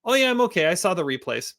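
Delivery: lightly voiced, high, chipper young woman; breezy and unbothered; a light mock brightness; ball girl. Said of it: "And she goes".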